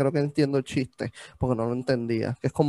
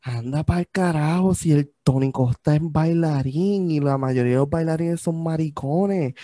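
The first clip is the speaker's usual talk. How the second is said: mock realization; slower than usual. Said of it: "yo digo como que".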